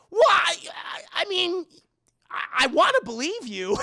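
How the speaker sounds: high, halting, tearful-sounding protest; mock anguished wail. Dad wants to believe Anna, hammed-up anguish. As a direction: blubber it out, torn. Father torn, answering his daughter.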